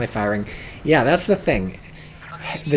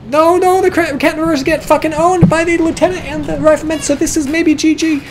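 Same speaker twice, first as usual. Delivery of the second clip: much higher, louder frantic play-by-play; excited shout; 11 semitones higher, 7 dB louder than usual. Real, not acted. Caster watching the American flank win, shouting excitedly. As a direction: yell it as the game swings.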